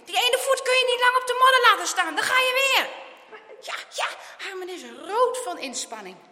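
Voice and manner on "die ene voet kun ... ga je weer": high, loud, sustained urgency; alarmed, forceful instructions; shouted warning. A narrator's reading. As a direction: yell a warning at him. Friend yells warning in rescue.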